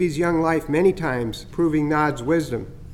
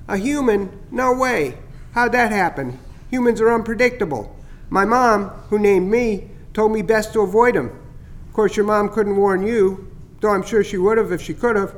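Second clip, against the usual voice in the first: higher, chirpy bird voice, pleased with his prank; teasing starling; 5 semitones higher than usual. Acted. Starling Chatter teasing Skippy about the scare, higher and chirpy. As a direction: gloat a little over the fake heron scare.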